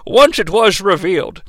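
lightly voiced starship captain; Captain Jean-Luc Picard. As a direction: dictate a captain's log, measured and formal. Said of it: "Lockdown sounds like Captain Jean-Luc Picard".

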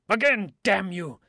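put-on loud, high drunken rant; drunken shouting. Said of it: "his drunken voice rumbled off into obscenities and oaths".

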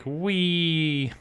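put-on cute clown girl. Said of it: "Bon Bon's there like".

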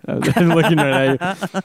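breaking into a laugh; laughing through the words. Real, not acted. Apologizes, laughing mid-sentence.

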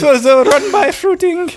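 high falsetto silly impression; Missus Doubtfire. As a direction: keep up the squeaky nanny act. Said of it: "it's just Missus Doubtfire".

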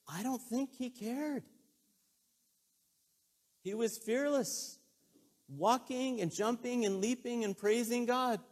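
high, ringing, drawn-out proclamation; exultant preaching. Real, not acted. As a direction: build into loud, high-pitched celebration. Preacher celebrates healed man's fearlessness.

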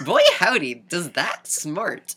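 hammed-up folksy wince, dragged out; quaint gentleman, slowed. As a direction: drawl out the old-timey exclamation. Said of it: "His reaction in ... romanticized goggle visions".

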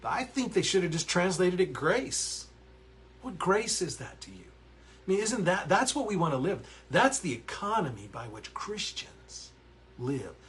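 real fervour rising as he preaches; worked-up preacher voice; getting worked up. Real, not acted. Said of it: "I'm probably getting too loud in here".

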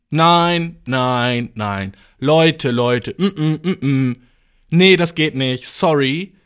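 firm, loud opening no, easing off; hammed-up killjoy refusal; mock objection. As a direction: imitate a fussy guest stopping everyone. Mimics a contestant objecting to party.

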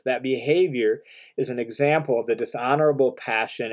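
"behavior" lifted and held; stress on behavior. Shown as a demonstration. Teacher stressing "behavior" to his listeners. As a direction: lean on "behavior" to mark the point. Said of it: "we emphasize the word behavior".

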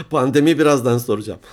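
words through a laugh. Real, not acted. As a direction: laugh while saying it. Laughs at wrong early answer.

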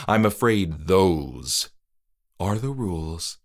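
coldly courteous ruling; polite creepy host. Acted. Trick-or-treater explains.

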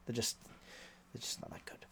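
whispered under the breath; whispered aside. Real, not acted. A tipster mocking European poker players, whispered. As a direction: let it slip out as a sneaky aside.

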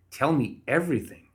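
pitched high with eager interest. A narrator's reading. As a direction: jump in, eager for the secret. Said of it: "she asked, pen hovering".

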